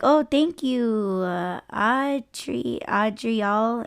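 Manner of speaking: slow, drawn-out sounding out of a name; hesitant name reading. Retold or imitated. Customer reading her name off the app, slow and hesitant. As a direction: feel your way through the syllables. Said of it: "and they were like".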